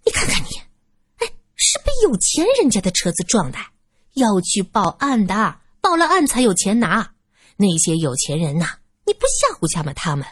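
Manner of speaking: 尖细拿腔的老妇，絮絮叨叨; 哭腔里带着算计; 刁钻老鸨. Acted. 老鸨尖声劝唐先生讹钱. (老鸨拉着唐先生撺掇去讹钱)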